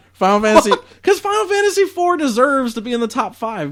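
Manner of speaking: high, loud pleading outburst; impassioned protest. Real, not acted. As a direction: burst out in protest, voice shooting up. Playful protest over his ranking.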